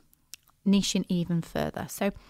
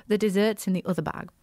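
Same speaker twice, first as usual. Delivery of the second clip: posh voice. Shown as a demonstration. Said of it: "I've got my posh voice on now".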